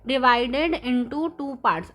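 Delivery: very slow, word by word, as if reading out notes; dictating each word slowly to the class; slow dictation. Shown as a demonstration. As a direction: spell it out slowly so children can copy it. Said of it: "मैंने note down किया है".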